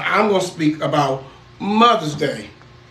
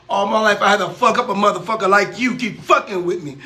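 tough male character line. Acted. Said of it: "say a male character's line".

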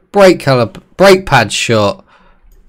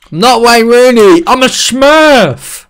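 high, slow squeaky Smurf voice; a hammed-up high cartoon Smurf; 10 semitones higher, 4 dB louder, slower than usual. Silly high voice bit.

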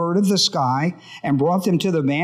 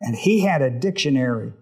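lower-pitched, measured public prayer; 4 semitones lower than usual. Real, not acted. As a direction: lead the group in prayer, pitched low. Leads the group in prayer.

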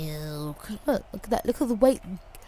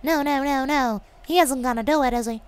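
bad American accent; 7 semitones higher, 11 dB louder than usual. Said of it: "really bad American accent".

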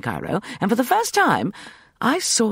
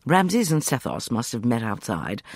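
ordinary delivery, nothing marked

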